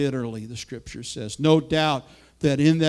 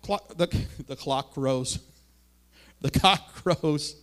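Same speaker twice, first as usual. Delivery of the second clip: laughing at slip-up; slower than usual. Real, not acted. Stumbles over word, laughs.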